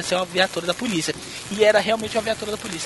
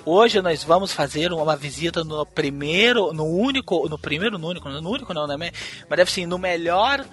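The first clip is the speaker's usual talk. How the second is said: tour guide voice; 3 semitones lower, slower than usual. Retold or imitated. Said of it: "a mulher vira e fala assim".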